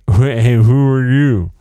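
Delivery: abrupt, blurted hey who are you; rude blurt. Shown as a demonstration. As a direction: blurt it with bad manners. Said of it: "rather than being like".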